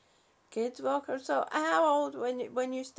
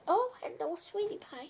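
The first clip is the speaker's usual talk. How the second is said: tender; 4 semitones higher, 3 dB quieter, faster than usual. Real, not acted. Greets a pet tenderly.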